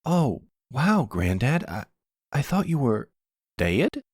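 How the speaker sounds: a startled grandson caught off guard; mild surprise. Acted. Grandson greeting the granddad he thought dead, startled.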